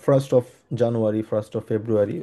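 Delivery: said slowly and carefully for learners; teacher spells out the date in English, slow and deliberate; slow model phrase. Shown as a demonstration. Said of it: "আমরা যেটা বলে থাকি".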